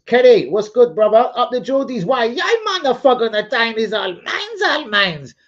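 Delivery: loud, high mock Geordie accent; hammed-up Geordie shout. Greeting Kenny the Newcastle fan in loud mock Geordie.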